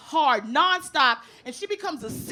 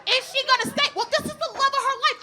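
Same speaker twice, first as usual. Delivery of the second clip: imitating mother; 8 semitones higher than usual. Mother arguing about the movie.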